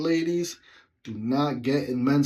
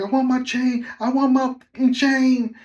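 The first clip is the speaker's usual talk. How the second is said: higher, louder mock furious demand; angry demand; 12 semitones higher, 8 dB louder than usual. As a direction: demand the chain back in rage. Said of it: "she's like".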